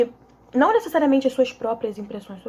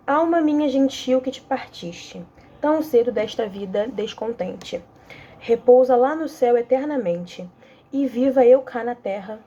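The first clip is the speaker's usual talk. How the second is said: lightly recited sonnet, measured lines; poem recital. Acted. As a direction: read the verse with a touch of ceremony. Reads Camões sonnet aloud. (leitura leve de poema)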